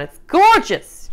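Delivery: loud, high gorgeous; gushing. Real, not acted. Vlogger gushes over her finished salad, loud and high.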